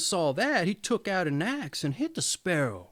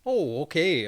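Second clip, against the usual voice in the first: breathless, catching breath; panting after the mood-setting. Real, not acted. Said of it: "I'm all out of breath".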